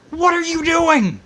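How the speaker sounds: slow, disbelieving yell of exasperation; incredulous outburst. Real, not acted. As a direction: throw up your hands at the president. Incredulous rant at president.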